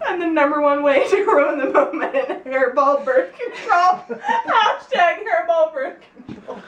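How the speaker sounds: high, giggly final line; laughing. Real, not acted. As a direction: laugh at your own joke. Punchline read laughing.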